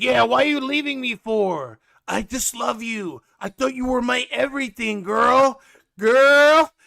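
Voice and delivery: high-pitched mock lovesick pleading; Big Ed. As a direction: wail it like a spurned lover.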